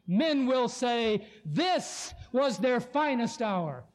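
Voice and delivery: a slow, measured hint of Churchill, lightly voiced; Churchill's memorable lines. A preacher quoting Churchill to his brethren, slow and measured. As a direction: read it like a grand wartime address, unhurried. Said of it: "he urged his people in these memorable lines".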